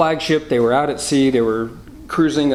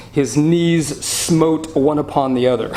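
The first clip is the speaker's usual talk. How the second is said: slow, measured King James reading; solemn scripture reading; 3 semitones higher than usual. Shown as a demonstration. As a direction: read it out like the old Bible. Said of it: "The King James says".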